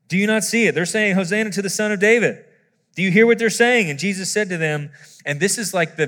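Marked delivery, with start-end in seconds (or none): 0.1-3.9 indignant scribes. Retold or imitated. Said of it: "scribes and the Pharisees are going".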